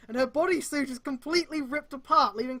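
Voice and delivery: can't keep a straight face reading this; laughing while reading. Real, not acted. Reader cracking up at the fanfic's climax.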